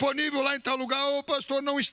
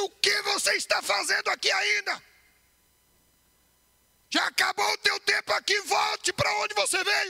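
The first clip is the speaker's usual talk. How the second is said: mock high-pitched yell, projected far; 6 semitones higher than usual. Speaker retells the devil entering the room and shouting, shouting as the Devil. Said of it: "O diabo entrou na minha sala e deu um grito".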